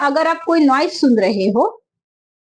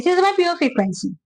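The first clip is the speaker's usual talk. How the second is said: monotone demo; much slower than usual. Shown as a demonstration. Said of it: "मैं एक ही इसमें बोल रही हूँ".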